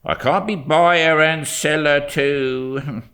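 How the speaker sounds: lightly voiced haggling old dealer; a hint of a grumbling shopkeeper; gruff shopkeeper. A narrator's reading. Shopkeeper haggling with a boy over a waistcoat, lightly gruff.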